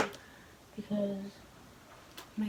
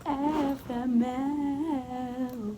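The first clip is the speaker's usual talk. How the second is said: drawn-out, higher exasperated groan; 4 semitones higher, 5 dB louder, much slower than usual. Real, not acted. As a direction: stretch each letter out in despair. Exasperated over snack choice.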